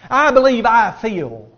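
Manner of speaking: a hint of proud Naaman; mock self-assured. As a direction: puff up with your own opinion. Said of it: "preconceived notion".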